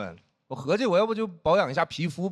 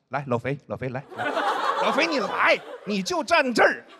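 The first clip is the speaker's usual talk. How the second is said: calling out teasingly; 3 semitones higher than usual. Retold or imitated. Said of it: "站那就在那喊我".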